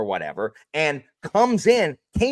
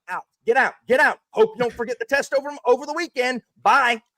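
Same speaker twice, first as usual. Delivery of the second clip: brisk teacher voice; 9 semitones higher than usual. Retold or imitated. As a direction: playfully shoo the kids out of class. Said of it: "That's how I talk as a teacher".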